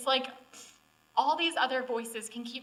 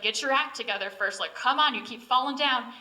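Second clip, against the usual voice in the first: louder mock impatience, pushing; a mock God demanding she shape up; impatient scolding; 7 dB louder than usual. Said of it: "being like".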